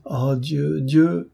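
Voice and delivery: understated anguish, climbing in pitch; anguished exclamation. Acted. Maria over her scorned letters, mildly anguished appeal. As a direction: let a despairing appeal rise.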